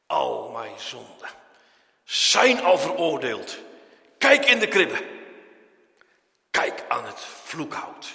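the believer rebuking Satan. Acted. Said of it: "Die zegt".

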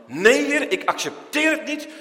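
high, loud imploring cry; urgent plea. Acted. Moses crying out to the Lord, high loud plea. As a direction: beg the Lord not to leave.

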